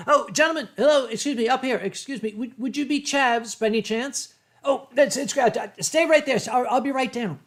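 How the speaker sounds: high, loud excited call down from a balcony; calling down excitedly. Retold or imitated. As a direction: hail the lads below, thrilled. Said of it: "I called down".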